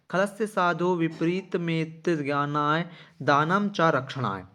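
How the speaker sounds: slow, measured Sanskrit recitation; verse recitation. Acted. Teacher reads Sanskrit verse to pupils, slow deliberate recitation. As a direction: read the verse out slowly, stretching the syllables.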